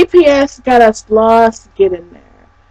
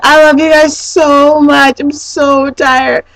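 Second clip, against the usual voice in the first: retold tired gushing; 4 semitones higher, slower than usual. Retells exhausted, gushing thanks to friends.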